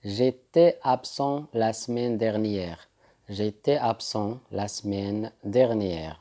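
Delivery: slow, careful French sentence; teacher modelling a sentence slowly; slow model sentence. Shown as a demonstration. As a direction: say it slowly for repetition. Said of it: "ولتقول".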